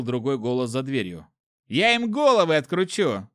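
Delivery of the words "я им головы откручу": high-pitched aggrieved protest; wounded pride, voice pushed up high; offended babble. A narrator's reading. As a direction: whine the threat like an insulted guard. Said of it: "обиженно залепетал первый охранник".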